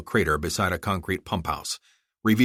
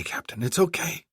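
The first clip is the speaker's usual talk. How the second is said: whispering; 10 semitones higher than usual. Acted. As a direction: whisper it to soothe him. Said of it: "she whispered".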